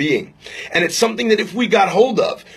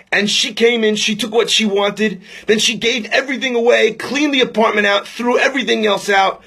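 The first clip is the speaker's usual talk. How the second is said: mildly indignant, higher-pitched grievance; aggrieved; 4 semitones higher than usual. Retold or imitated. Old man telling the rabbi of his sister's wrong, aggrieved. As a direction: list each wrong with building resentment.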